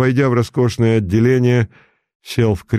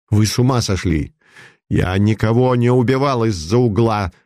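angry; 2 semitones higher than usual. Acted. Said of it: "гневно вырвалось у него".

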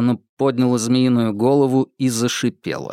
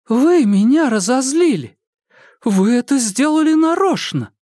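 high, louder accusation; accusing outburst; 12 semitones higher, 4 dB louder than usual. Acted. Irma accuses Makar, high and loud. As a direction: point the finger at him.

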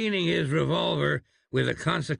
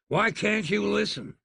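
high, pleading exasperation; exasperated outburst; 8 semitones higher than usual. Acted. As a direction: demand they finally listen. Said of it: "he exploded at length".

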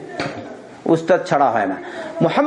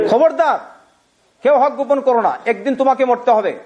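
stern warning; 5 semitones higher than usual. Real, not acted.

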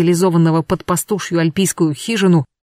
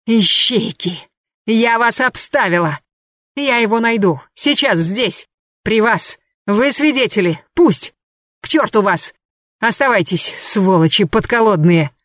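a higher, shrill-edged raging woman; Anna's frenzied rant; 3 semitones higher than usual. Acted. Anna defying the detectives in a higher raging voice. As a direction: spit defiance at them.

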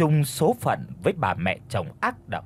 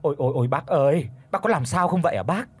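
fake crying; 2 semitones higher, faster than usual. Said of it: "giả giọng mèo chuột mà khóc".

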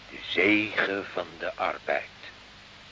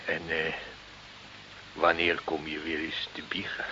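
zachte gefluisterde vraag; fluisterend; 4 semitones lower, 8 dB quieter than usual. Acted. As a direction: fluister het, bijna geheim. Pastoor vraagt zacht, samenzweerderig. (pastoor vraagt fluisterend naar de biecht)

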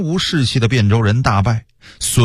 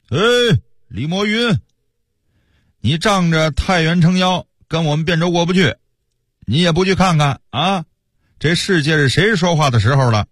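higher-pitched taunting call up at the walls; acted crier's call; 5 semitones higher than usual. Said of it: "叫一些嗓门大的到城下喊话".

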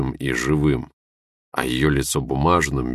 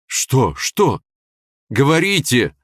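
high, loud, pained demand; pained cry; 9 semitones higher, 5 dB louder, slower than usual. Acted. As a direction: shout out in anguish. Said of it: "выкрикнул я болезненно".

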